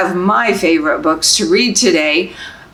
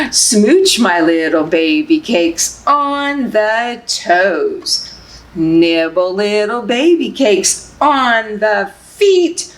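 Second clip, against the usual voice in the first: slow, sing-song picture book reading; reading to babies; slower than usual. Acted. Librarian reading Baby Cakes to babies, sing-song. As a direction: lull them along, gently rhythmic.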